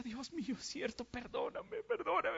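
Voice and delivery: softly begging forgiveness, high and choked; broken plea. A narrator's reading. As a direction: barely voice the apology, on the edge of tears. Begging forgiveness of weeping Jesus.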